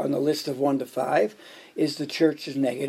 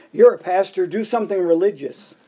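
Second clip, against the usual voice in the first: raised mock shout at the pastor; half-hearted yell, louder on the first words; retold scream; 3 semitones higher, 5 dB louder than usual. Flight attendant turning to a passenger, a mild mock scream.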